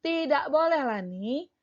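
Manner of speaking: lightly acted child saying no; lightly voiced Komang. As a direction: gently forbid it like a child. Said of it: "diucapkan oleh Lani dan Komang".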